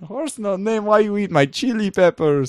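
high, cartoonish comic voice; silly quoted voice. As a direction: squeak it like a goofy sidekick. Quoting a funny film voice.

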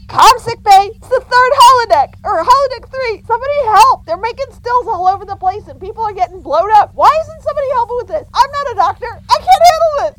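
high frantic yelling for help; panicked shouting. Acted. Panicked call for medical help.

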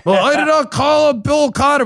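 high, mocking imitation of the president; hammed-up impression of the old president; mock Biden. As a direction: parody his denial with a sneer. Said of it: "Did you hear Phil Wegman ask".

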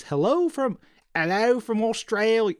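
high, hammed-up Aussie "hello from"; a cheeky fake Australian greeting; mock Australian accent. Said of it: "Sorry, Evan, I won't do that again".

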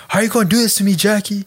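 mock sobbing plea. Quoting a heartbroken lyric with mock sobbing. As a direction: wail it like a heartbroken lover. Quoting a crying line from song.

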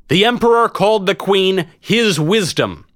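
high, projected announcement; public proclamation. A narrator's reading. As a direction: relay it to the whole crowd, high-pitched. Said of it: "I turned to address the vast crowd".

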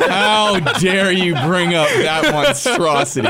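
drawn-out, hammed-up indignation; mock outrage. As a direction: play deeply offended, spacing the words out. Playful outrage at movie mention.

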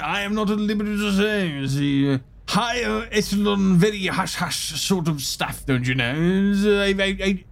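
pompous commodore. Acted.

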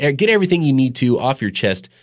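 ordinary delivery

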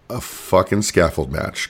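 "fucking" hit hard and slowed; stressed fucking. Real, not acted. Host bluntly naming the dreaded match, stress on "fucking". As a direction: lean slowly on "fucking scaffold match". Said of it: "Can we emphasize on the word fucked?".

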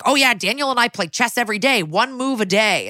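a hint of an oddball super, slowing at the end; chatty oddball, lightly imitated; weird super character. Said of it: "he's like a weird super character".

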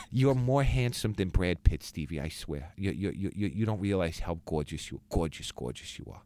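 mom gushing, fading to a breathy hush; doting mother, drifting to a whisper. Retold or imitated. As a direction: lay the praise on thick, trailing off to a near whisper. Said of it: "she goes".

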